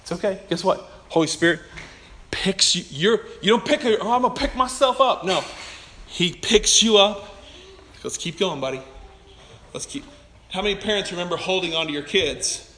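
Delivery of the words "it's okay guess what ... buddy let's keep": gentle encouraging. Retold or imitated. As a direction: coax the child gently, lovingly. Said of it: "He's like".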